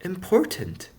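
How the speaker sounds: small, high-pitched answer; Punchinello's small voice. A narrator's reading. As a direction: shrink into a tiny high voice. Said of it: "still with a small voice".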